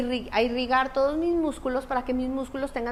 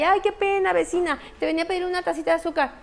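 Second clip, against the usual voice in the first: embarrassed neighbour; 5 semitones higher, faster than usual. Retold or imitated. Visitor apologising to neighbour.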